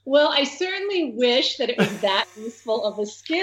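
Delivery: laughing while talking. Real, not acted. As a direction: laugh through the words. Laughs at own modest skill.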